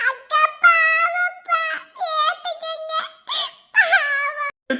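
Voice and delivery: slow, sobbing last word; crying plea. Acted. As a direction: beg through tears. Begging father, crying. (அழுகையுடன் கெஞ்சுதல்)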